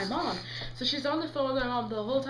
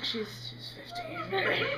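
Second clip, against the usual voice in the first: very slow, high squeak; hesitant, squeaky mock answer; high-pitched reluctance; 4 dB quieter, much slower than usual. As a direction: draw it out in a tiny high voice. Mom gives age, high and slow.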